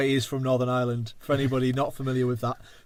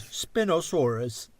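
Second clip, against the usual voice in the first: robotic voice; 2 semitones higher, much slower than usual. Retold or imitated. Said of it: "copying this fucking weird, like, fucking voice generator".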